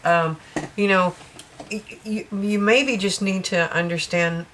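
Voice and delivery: normal talking voice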